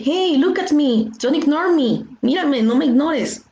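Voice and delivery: insistent plea. Acted. Demanding attention when ignored.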